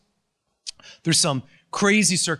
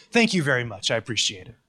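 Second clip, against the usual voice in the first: sarcastic thanks; 5 semitones lower than usual. Acted. Preacher sarcastically thanking friends for their advice, dripping sarcasm. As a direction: thank them while rolling your eyes. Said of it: "Excuse my cynicism and sarcasm".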